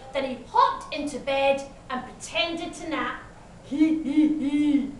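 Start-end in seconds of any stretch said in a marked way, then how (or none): 3.6-4.9 sly wolf's "hee hee hee"; spelt-out villain's giggle; snarled wolf snicker. A narrator's reading. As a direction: snicker to yourself as the scheming wolf. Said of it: "he snarled".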